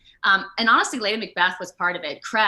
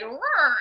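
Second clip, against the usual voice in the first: mock whir noise; 7 semitones higher, 4 dB louder than usual. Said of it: "literally like".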